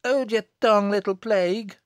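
loud, high scolding; angry cry. Acted. Mother silencing her child, loud angry cry. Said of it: "cried Elizabeth".

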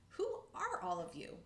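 high slow called question; high slow squirrel call. Acted. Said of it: "called out".

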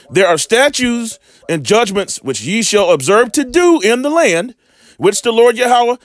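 measured, solemn Bible reading; scripture reading. Acted. Preacher reading Deuteronomy to his viewers, solemn scripture reading. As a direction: read the verse like holy law.

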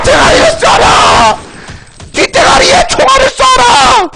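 high, slow, drawn-out command; shouted firing order. Pretend. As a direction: stretch out a hammed-up battle order. 과장된 장군식 사격 명령. (길게 끄는 높은 사격 호령)

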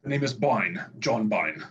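put-on lightly done Welsh accent, low on the surname; a hint of a Welsh lilt, suave spy line. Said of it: "Welsh accent".

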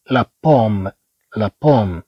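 بوم opening on a popped p; stressed hard P. Shown as a demonstration. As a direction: press the first sound of بوم as p. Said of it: "الباء كما نقول مشددة".

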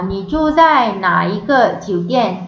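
Ni zhu zai na yi ge jiu dian said slowly, zai stressed; teacher demonstrating a friend's question; slow Mandarin demo. Shown as a demonstration. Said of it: "Awak tinggal dekat hotel yang mana satu".

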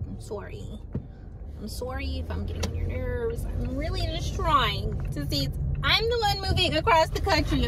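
lightly put-on polite customer voice, pleading upward; mildly flustered apology to a clerk, imitated; talking to grown-ups. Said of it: "My voice, my voice changes a lot".

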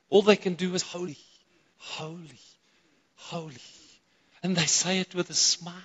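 hushed, restrained "holy"; soft reverent repetition, dropping to very quiet; geared-down preaching. Real, not acted. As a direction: say it softly, holding the excitement back. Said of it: "gear down a little bit".

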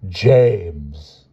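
teacher easing off from stern; softened schoolmistress address. A narrator's reading. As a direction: say the name again, milder. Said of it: "she said more gently".

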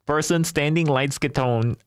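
"skatone" run together, copying a robot reader; amused, slow echo of "skatone"; mimicked mispronunciation. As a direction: slowly parrot the slip "skatone" for skin tone. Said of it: "why does he say it like that".

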